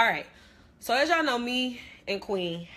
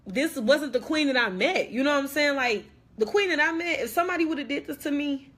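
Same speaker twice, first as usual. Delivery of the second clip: real upset building into a raised voice; getting emotional; 6 semitones higher, 3 dB louder than usual. Real, not acted. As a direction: voice rising higher and louder, worked up. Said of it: "if I start getting emotional".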